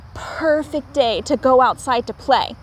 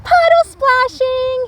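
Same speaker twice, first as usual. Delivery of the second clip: excited answer; 13 semitones higher, 6 dB louder than usual. A narrator's reading. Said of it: "he answered".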